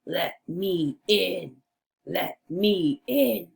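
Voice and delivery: lightly voiced storybook wolf; a hint of wolf, word by word; big bad wolf voice. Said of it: "in your big bad wolf voice".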